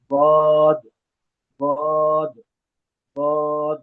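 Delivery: ضاد full and heavy, not a D; drawn-out ضاد from the side of the tongue; correct heavy Daad. Shown as a demonstration. Teacher modelling the letter for students, correct heavy ضاد. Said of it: "تو داد نہیں پڑھنا ہے".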